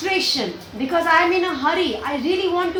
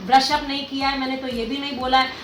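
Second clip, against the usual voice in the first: panicked rush; 3 semitones lower, faster than usual. Retold or imitated. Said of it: "we'll be all stressed".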